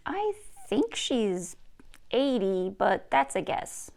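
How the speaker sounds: put-on whispered, slow boy's guess; hesitant boy, half whispering; unsure Carver. Carver unsure about mom.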